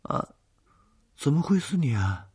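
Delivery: high, loud panicked pleading; frightened man begging to be believed; terrified. A narrator's reading. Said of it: "他惊恐地说".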